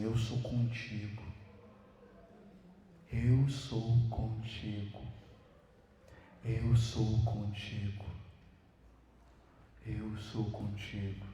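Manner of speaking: slow, low, reassuring; tender divine voice. Acted. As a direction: breathe each "Eu sou contigo" gently. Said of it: "A voz diz, que diz pra mim". (a voz de Deus, lenta e acolhedora)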